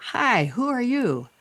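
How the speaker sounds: high, swooping open-mouthed greeting; wide-mouthed frog. Acted. Frog greeting a little bunny, high and wide-mouthed. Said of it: "trying to open my mouth really wide".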